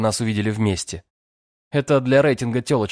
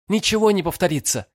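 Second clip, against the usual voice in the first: firm refusal; 10 semitones higher, 4 dB louder than usual. A narrator's reading. Firm refusal, pushing him away.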